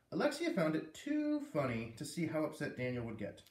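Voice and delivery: reading a chapter to the class; story read aloud. Acted. Teacher reads chapter to class.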